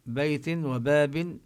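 بيت and باب with long stretched vowels; slow demo stretching the vowel in بيت and باب; teacher stretching بيت to match the length of باب; drawn-out vowels. Shown as a demonstration. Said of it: "نمد الصوت بباب".

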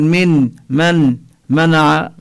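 من منع with nun sounded separately, slow; wrong nun shown. Shown as a demonstration. Teacher showing the wrong reading, nun sounded slowly. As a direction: say "من من منع" with each nun audible. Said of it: "لا نقول".

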